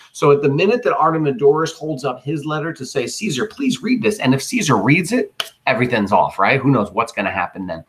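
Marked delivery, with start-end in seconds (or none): 3.1-4.2 pleading petitioner. Acted. Artemidorus begs Caesar to read.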